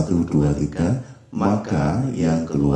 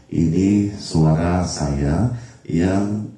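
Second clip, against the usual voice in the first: effect-only voice; slower than usual. Shown as a demonstration. Teacher demos mixer effect alone, without his real voice. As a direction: talk as if only the effect channel is on. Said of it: "dengan efek saja".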